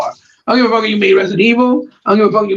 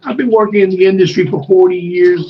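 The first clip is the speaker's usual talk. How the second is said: mocking tired quote; 3 semitones lower than usual. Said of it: "I'm leaving 'cause I'm tired".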